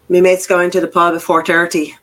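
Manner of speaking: put-on Irish accent. Shown as a demonstration. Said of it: "that's an Irish accent".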